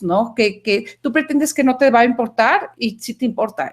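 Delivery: ordinary talk, nothing marked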